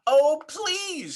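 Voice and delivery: put-on a kid's eager protest, lightly done; child frog's plea; lightly voiced child crying out. A narrator's reading. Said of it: "cried Froggy".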